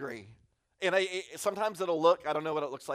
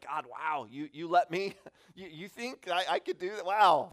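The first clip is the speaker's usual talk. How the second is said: awed prayer; 3 semitones higher than usual. Retold or imitated. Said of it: "moments where I'm just blown away".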